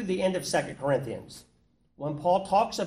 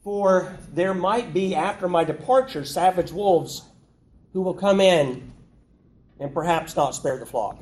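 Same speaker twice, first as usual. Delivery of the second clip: mock hedging; 5 dB louder than usual. Shown as a demonstration. Preacher mocking a watered-down Paul, hesitant. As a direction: hedge every word like you're unsure. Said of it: "That's not what he says".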